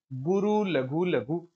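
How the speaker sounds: "गुरु लघु लघु" said very slowly, each word separated; slow spelled-out pattern. Shown as a demonstration. Teacher showing students the pattern, slow and deliberate. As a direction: draw out "गुरु लघु लघु" one word at a time. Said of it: "गुरु लघु लघु देख लो".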